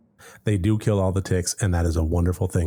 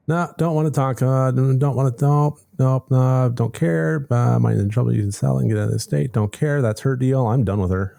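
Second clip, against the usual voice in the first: mock petulant whine; 6 semitones higher than usual. Refusing to face the cousin.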